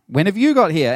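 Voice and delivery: high, loud cry of a crowd; hammed-up excited cry; mock eager cry. Crowd voice again, crying out.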